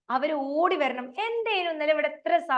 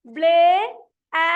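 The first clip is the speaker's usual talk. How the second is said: loud call; 3 semitones higher, 8 dB louder, much slower than usual. Shown as a demonstration. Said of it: "പറ, പറ".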